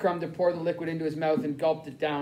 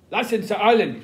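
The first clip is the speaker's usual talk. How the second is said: loud, higher German command; sharp raised-voice command in German; barked order; 4 semitones higher, 6 dB louder than usual. A narrator's reading. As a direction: bark it out as an order. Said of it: "he barked".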